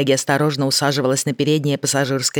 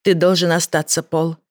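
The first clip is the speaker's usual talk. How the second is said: serious; 2 semitones higher than usual. Acted. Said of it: "серьёзно сказала Мэгги".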